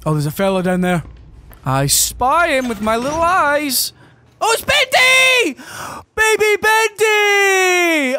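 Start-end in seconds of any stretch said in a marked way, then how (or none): 4.4-8.2 high, excited greeting with long drawn-out vowels; delighted squeal. Real, not acted. Player spots adorable Bendy in the game, delighted squeal. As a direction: squeal with delight, stretching the name.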